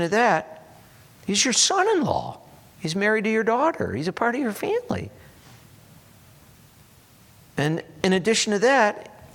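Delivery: high-pitched, incredulous defence; acted disbelief, pitched well up; shocked protest. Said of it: "he's, like, shocked at this".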